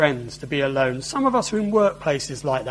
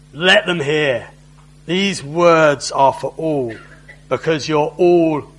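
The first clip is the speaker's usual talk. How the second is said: louder, slow sneer; 5 dB louder, slower than usual. Acted. Envoy sneering back at the officials, louder. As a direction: sneer it at the whole crowd. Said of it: "the Rabshakeh sneers back".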